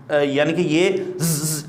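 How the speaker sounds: slow "ز" with its whistle; whistle demo. Shown as a demonstration. Teacher contrasting whistles for students, slow buzz. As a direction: let "ز" whistle slowly. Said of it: "اس طرح کی سیٹی کے ساتھ".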